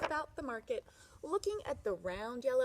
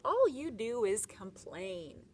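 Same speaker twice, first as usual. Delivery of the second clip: slow, louder grumpy scold; grumbling; 5 dB louder, slower than usual. Acted. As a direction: drag out the complaint like a grouchy husband. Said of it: "the man grumbled".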